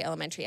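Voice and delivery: "elementary" with the end reduced to "tree". Shown as a demonstration. Speaker showing what she never says, "elementary" ending in "tree". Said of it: "I never say elementary".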